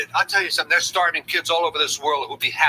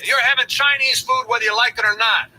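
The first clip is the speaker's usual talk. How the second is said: raised voice, laying down the law; yelling; 8 semitones higher, 4 dB louder than usual. Acted. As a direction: shout it at the kids. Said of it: "you don't have to yell at us".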